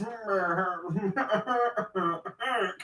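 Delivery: long wordless grumble, imitating an old guy; grumbling imitation. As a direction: mumble and grumble with no words. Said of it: "you get this".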